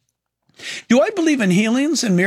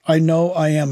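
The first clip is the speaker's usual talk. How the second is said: uneasy repeat; 4 semitones lower than usual. Real, not acted. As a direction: repeat the title lower, with wary unease. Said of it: "I'm just nervous about that title".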